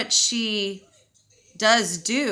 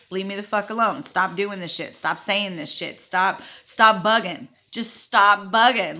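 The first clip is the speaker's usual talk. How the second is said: fed-up retort; 6 dB louder than usual. Retold or imitated. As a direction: tell off a sister, hitting the last demands hard. Fed-up retort aimed at sister.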